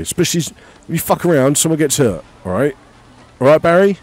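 a light hint of a pushy site foreman; bossy builder foreman. Foreman scolding builder Barry to hurry, lightly voiced. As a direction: nag the lazy builder like a gaffer on the clock. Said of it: "another appropriate builder name".

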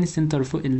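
"السنتر فوق ال-" cut short before the hard part; failed attempt at saying "السنتر فوق ال-"; stumbling pronunciation. Real, not acted. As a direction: try "السنتر فوق ال-" and abandon it unfinished. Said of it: "مش بعرفش انطقها يعني".

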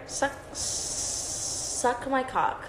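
very slow, breathy whispered aside; mock whisper. Crude aside whispered to chat.

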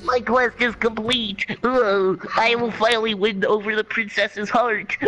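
nerd voice. Pretend. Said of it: "do that nerd voice".

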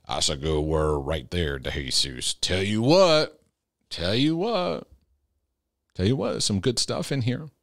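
slow, stretched-out amen-corner praise; put-on approving churchgoer. Imitating someone praising the preacher's good word, slow put-on voice. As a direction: draw out each phrase in a put-on voice. Acts out an admiring listener's praise.

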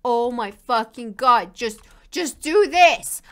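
a slow, mildly loud mock plea at the screen; imitating fans yelling, drawn out; viewers screaming. Streamer mimics chat begging her, slow mock yell. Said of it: "You guys are a hundred percent screaming".

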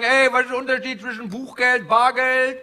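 high-pitched imitation of desperate customers; mock desperation. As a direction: ask like a mock-desperate client. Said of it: "sind verzweifelt".

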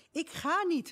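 put-on loud, high teenage defiance; defiant teenage outburst; rebellious shout. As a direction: shout it back like a stubborn rebel. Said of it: "riep ik, want ik was een rebel".

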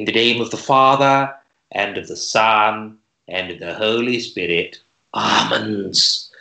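slow solemn blessing, lightly voiced; priest voice. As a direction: intone like a bribed priest. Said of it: "That's a priest".

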